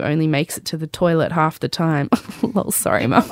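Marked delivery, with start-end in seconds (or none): 2.4-3.2 breathy laugh through sorry; laughing apology. Real, not acted. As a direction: giggle out a quick sorry. Laughing apology mid-reading.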